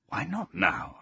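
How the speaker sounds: a restrained cry of objection; crying out, hushed. A narrator's reading. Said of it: "I cried".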